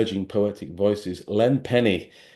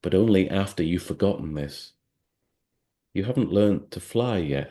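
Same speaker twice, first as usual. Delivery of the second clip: measured, unhurried recital of a poem; poem reading. Acted. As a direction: read it like a spoken-word poem, letting the lines breathe. Reads a poem aloud.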